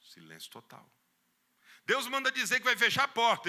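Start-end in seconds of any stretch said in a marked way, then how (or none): 1.8-3.5 hammed-up prophetic declaration; mock preacher proclamation. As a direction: boom it like a bold preacher.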